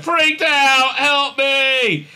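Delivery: high, loud mock-panic cry; hammed-up wail for help; Saru. Saru still freaking out, panicked cry for help. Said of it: "still kind of freaking out".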